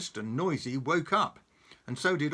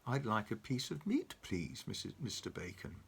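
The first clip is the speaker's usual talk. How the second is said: soft, fading politely; quietly; 3 semitones lower, 6 dB quieter than usual. Acted. Mister Noisy politely asks Mister Bacon, quiet. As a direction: ask gently. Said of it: "he said quietly".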